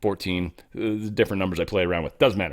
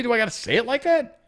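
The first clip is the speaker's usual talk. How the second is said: mock whine; 12 semitones higher than usual. Real, not acted. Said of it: "mock whine".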